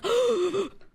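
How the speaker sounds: high, loud theatrical gasp; mock gasp. Christine seeing the Phantom again, theatrical gasp. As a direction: gasp like she's seen a ghost.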